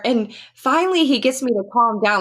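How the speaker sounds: real choked-up voice, pitched high; high, emotion catching in the throat. Real, not acted. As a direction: keep telling it while fighting tears. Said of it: "I get choked up about this".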